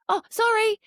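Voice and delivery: put-on high, loud little-kid apology; sheepish kid. Foster child caught swearing apologises, high sheepish voice. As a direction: squeak out a guilty sorry like a caught child. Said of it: "And they'll be like".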